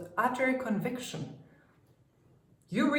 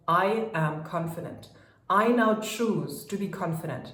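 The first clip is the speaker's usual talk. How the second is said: with conviction; faster than usual. Shown as a demonstration. Coach showing the convinced version of an affirmation, firm and steady. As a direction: state it as settled fact. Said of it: "Can you feel the difference how I'm saying that".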